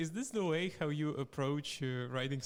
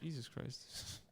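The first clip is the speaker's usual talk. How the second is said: slow unvoiced whisper; 9 dB quieter, slower than usual. Real, not acted. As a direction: breathe it out, whispered. Whispered reaction.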